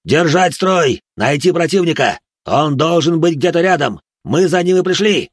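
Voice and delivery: loud, high, forceful commands; a leader fighting for control; barked orders. Acted. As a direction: bark them to hold the line. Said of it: "рявкнул старший".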